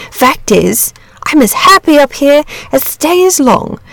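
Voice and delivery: a hint of a wary dragon; lightly voiced touchy dragon. A narrator's reading. Dragon character speaking.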